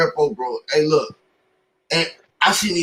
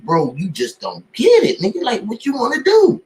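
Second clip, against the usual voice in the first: louder, pushy sales pitch; 3 semitones higher, 3 dB louder than usual. Retold or imitated. Industry people pitching the rapper, louder pushy urging. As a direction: press him hard to sign.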